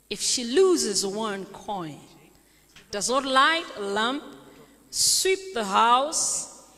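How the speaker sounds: slow, measured Bible reading; solemn scripture read in separate phrases. Acted. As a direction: read the parable aloud with deliberate pauses. Reads scripture aloud.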